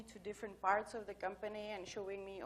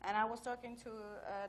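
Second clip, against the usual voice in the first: ordinary talk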